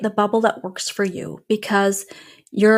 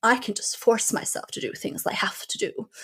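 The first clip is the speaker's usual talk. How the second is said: mock skeptic; 7 dB quieter than usual. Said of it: "They're like".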